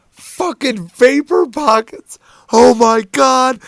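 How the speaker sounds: very high, loud, slow mock hysterics; imitated losing it. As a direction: act out someone losing it completely. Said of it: "he's losing it".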